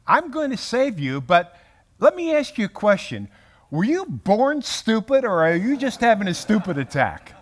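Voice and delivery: mock sarcastic Jesus. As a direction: play a scornful teacher mocking a student. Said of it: "He could have said".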